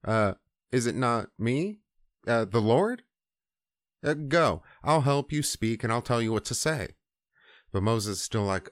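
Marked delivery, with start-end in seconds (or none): 0.0-6.9 mock-exasperated rhetorical questioning; mildly frustrated. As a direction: imitate a God losing patience with excuses. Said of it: "God starts getting frustrated with Moses".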